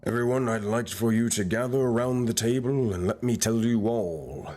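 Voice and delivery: ominous fireside storyteller welcome; slow, dramatic spooky tale intro; horror host. Acted. GM opens with a fable intro.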